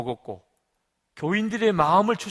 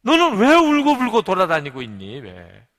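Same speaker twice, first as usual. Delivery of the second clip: acted divine rebuke, booming then fading; God's reproving question; 4 semitones higher, 11 dB louder than usual. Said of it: "하나님께서 물으시더래".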